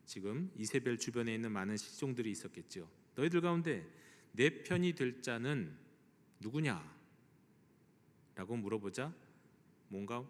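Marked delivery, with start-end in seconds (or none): 3.2-7.0 loud call. Retold or imitated. Usurper calls up to the palace servants for allies, loudly. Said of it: "딱 큰 소리로 말합니다".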